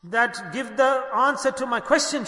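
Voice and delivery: mildly insistent, storyteller's demand; retold demand. Wronged widow confronting the king, mildly demanding. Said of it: "she demanded".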